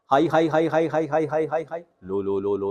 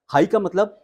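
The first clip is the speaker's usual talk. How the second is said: lifted high and louder; high pitch; 8 semitones higher, 5 dB louder than usual. Shown as a demonstration. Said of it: "high pitch".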